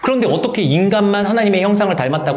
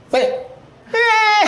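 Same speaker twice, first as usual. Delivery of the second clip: very high, wailing, imitated baby cry. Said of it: "하고 울어요".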